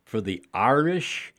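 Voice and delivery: slow careful pronunciation of shillelagh; said slowly. Shown as a demonstration. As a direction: spell out each syllable slowly. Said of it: "I have to do it slowly".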